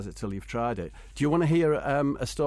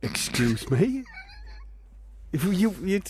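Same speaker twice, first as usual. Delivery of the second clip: mock outrage; 7 semitones higher than usual. Real, not acted. Outraged at James Corden choice.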